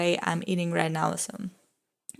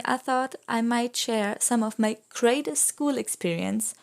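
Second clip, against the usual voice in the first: sarcastic; 3 semitones higher than usual. Real, not acted. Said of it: "Note the sarcasm here".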